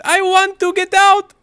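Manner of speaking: high, loud, drawn-out imitation with Russian accent; Veniera screaming. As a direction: scream it like the terrified Russian colleague. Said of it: "and she screamed".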